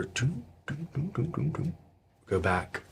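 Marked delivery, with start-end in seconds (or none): 0.0-1.7 soft thudding doom doom, like a door; door knocking sound. Shown as a demonstration. Game master imitating a door knocking for the players. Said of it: "the door".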